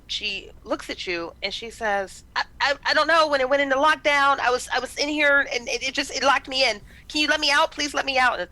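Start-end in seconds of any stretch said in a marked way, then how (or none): 2.3-8.4 high, loud, stammering panic; frantic. Acted. Locked-in doctor pleads with strangers at the window, frantic and loud. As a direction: beg for release, tripping over words. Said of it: "She's frantic".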